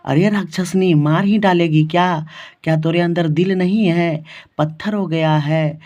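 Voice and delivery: mock yelling at a daughter-in-law; imitated angry scolding. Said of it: "पूरा चिल्लाने लगी अपने पुतहू पर". (पुतहू पर चिल्लाती सास की नकल)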